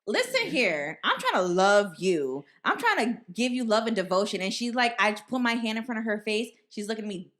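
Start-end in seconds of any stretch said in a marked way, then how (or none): 0.1-4.4 dramatic auntie begging for love; mock pleading. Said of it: "I'm like".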